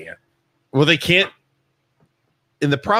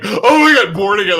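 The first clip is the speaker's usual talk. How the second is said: acted reaction; 6 semitones higher, 5 dB louder than usual. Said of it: "Menchie's is like".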